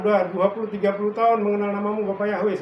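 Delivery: pleading protest. Retold or imitated. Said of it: "saya bilang".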